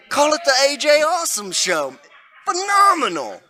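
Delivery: high hyped showman call; announcer voice. Pretend. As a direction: hype it like a ring announcer. Announcing a show name.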